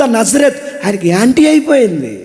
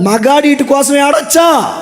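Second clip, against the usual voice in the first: challenging shout; 4 semitones higher than usual. Acted. Preacher challenging men.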